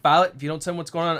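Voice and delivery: stern dad warning. Retold or imitated. Dad scolding crying daughter.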